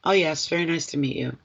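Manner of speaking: breezy, as if it hardly matters; nonchalant. Pretend. Psychic shows client how to greet a new date, offhand and nonchalant. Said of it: "nonchalant kind of an attitude".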